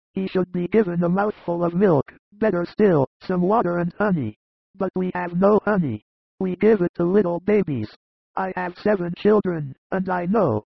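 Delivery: high, knowing advice; fatherly shepherd. A narrator's reading. Narrator voices a shepherd father.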